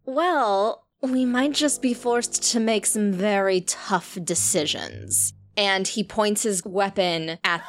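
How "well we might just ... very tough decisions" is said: slow, lightly voiced threatening leader; a hint of a gloating villain; menacing villain. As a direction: threaten the hostages calmly.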